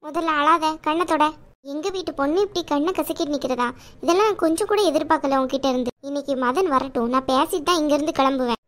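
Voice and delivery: caring aunt voice. Acted. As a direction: play the protective chithi, chiding but kind.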